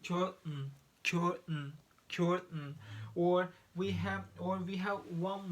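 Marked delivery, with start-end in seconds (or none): 0.1-2.8 curtain with the T caught in the throat, like cur'n; glottal T in curtain. Shown as a demonstration. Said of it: "We say glottal T".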